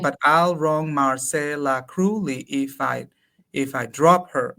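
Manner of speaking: slow, syllable by syllable scansion; scanning the meter. Shown as a demonstration. Counting syllables for a colleague, slowly scanning. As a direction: count out each beat of the line. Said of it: "Hay once".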